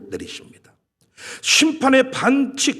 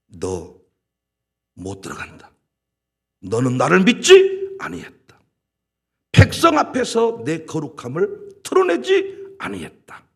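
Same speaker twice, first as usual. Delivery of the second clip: starts much lower, a stern divine ruling; God's verdict; 4 semitones lower than usual. Retold or imitated. Preacher voicing God barring Moses, low stern verdict. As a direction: pronounce judgment low and final. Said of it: "평가를 달리했죠".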